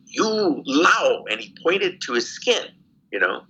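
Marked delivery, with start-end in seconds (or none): 0.1-1.2 higher, lightly imitated officer, falling at the end; retold interrogator. Lieutenant repeating his question to the prisoner, retold interrogator's voice. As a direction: repeat the officer's blunt accusation. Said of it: "He goes".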